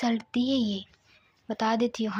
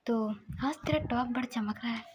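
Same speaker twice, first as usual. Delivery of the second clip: soft, half-whispered telling; hushed storytelling; 6 dB quieter than usual. Acted. Narrator telling the grandmother's questioning of Siddharth, softly hushed.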